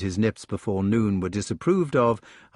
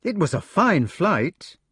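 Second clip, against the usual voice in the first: lamely; 8 semitones higher than usual. Acted. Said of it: "he concluded lamely".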